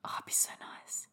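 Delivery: breathy longing whisper; dreamy whisper. Real, not acted. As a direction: sigh it out like a daydream. Dreamy whisper about getting rich.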